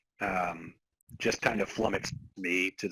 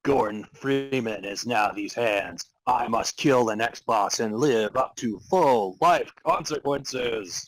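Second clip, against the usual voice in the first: slow, louder heroic declaration, lightly hammed; John Freeman declaration; 4 dB louder, slower than usual. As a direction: proclaim it like a grim action hero. Voices John Freeman dialogue.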